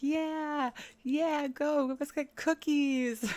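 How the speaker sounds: high, slow squeaky chat voice; egging her on in a squeaky voice. Retold or imitated. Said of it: "all of her chat was, like, egging her on".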